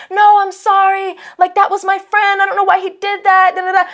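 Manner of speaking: put-on high-pitched pleading boy voice; apologetic kid. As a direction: plead innocence in a high kid's voice.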